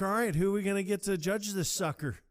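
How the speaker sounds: high, loud surfer-dude call; loud high quote. Retold or imitated. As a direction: pump up the room. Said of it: "he's like".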